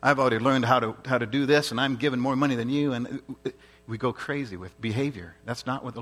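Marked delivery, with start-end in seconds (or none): 0.0-2.9 lightly acted boast, starting loud; self-righteous boasting. Preacher voicing the flesh that likes to think, boastful. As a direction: push it out like a mild show-off. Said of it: "our own flesh likes to think".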